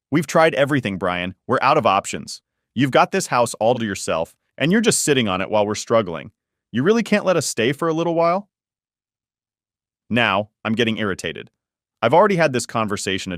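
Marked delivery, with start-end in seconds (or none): 0.1-8.5 frustrated husband pushing, pitch climbing to a high plea at the end; frustrated, almost angry. Acted. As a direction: press him hard, exasperated and near anger. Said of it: "He's frustrated, almost angry".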